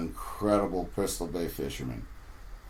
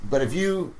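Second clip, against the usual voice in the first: put-on Corey, no accent; 6 semitones higher, 3 dB louder than usual. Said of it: "I'm not gonna do his accent".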